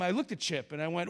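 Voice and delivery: ordinary talk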